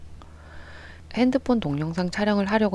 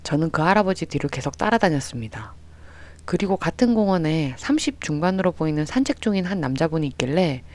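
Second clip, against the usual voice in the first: ordinary delivery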